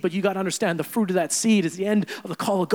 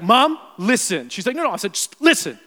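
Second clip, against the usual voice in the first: retold heated apology; 5 semitones higher, 10 dB louder than usual. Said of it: "And I was like".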